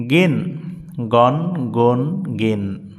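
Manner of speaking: গন গুন গিন chanted with a ringing n; nunation drill. Shown as a demonstration. Teacher chanting nunated syllables to practice. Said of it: "মনে রাখবেন".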